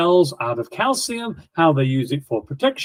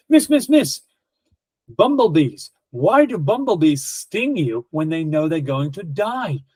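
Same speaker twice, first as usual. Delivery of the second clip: put-on eager child. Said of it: "Another child puts his hand up".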